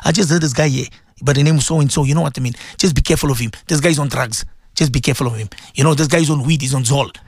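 low, confiding rumour-monger voice; gossiping friend. Retold or imitated. Radio preacher acts a gossip for his listeners, low and confiding. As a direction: spread the rumour like a trusted secret. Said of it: "I'm giving an example".

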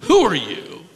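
a sneering "Ha! Who are you?"; mocking scorn. Shown as a demonstration. Demon mocking Jesus in the synagogue, derisive. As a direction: toss it off with contempt. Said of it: "It's a form of derision".

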